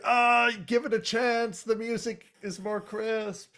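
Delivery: high, coaxing hipster voice; mock vinyl snob. Galvatron coaxing Megatron about the disc, high pitched. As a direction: pitch the record's sound to a skeptic. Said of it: "And he's like".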